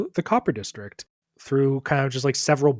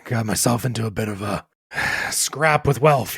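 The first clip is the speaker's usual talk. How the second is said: Riggs; 3 semitones lower than usual. Acted. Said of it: "What have you gotten yourself into?".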